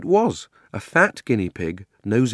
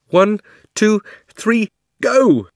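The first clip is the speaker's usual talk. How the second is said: counting together; 12 semitones higher, 7 dB louder, much slower than usual. A narrator's reading. Children count before jumping.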